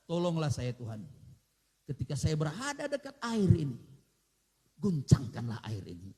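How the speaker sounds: low, earnest plea to God; a lightly voiced sick man praying; pleading sick man. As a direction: beg as the helpless man at the pool. Sick man's imagined prayer.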